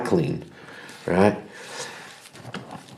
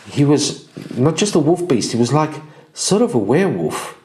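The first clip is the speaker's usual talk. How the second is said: excited harefoot report; 2 semitones higher than usual. Acted. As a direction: tell the news like a breathless small scout. Grimalda reports news in character.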